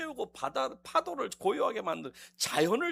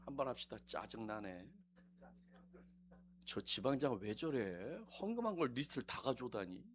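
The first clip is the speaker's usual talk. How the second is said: grumbling; 12 semitones lower, 13 dB quieter than usual. Pretend. Congregation's grumbling voiced.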